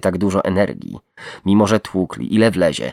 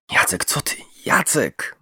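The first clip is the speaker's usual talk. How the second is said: desperate plea, rising high on the name; pleading; 9 semitones higher than usual. A narrator's reading. Captive begging his friend Jacek to stop, pleading. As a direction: beg him to stop. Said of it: "mówił błagalnym tonem".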